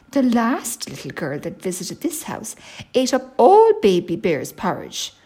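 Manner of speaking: mildly grumbling mother bear; a touch of indignant complaint. Acted. Mummy bear complains of the last visitor, grumbling. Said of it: "grumbled Mummy Bear".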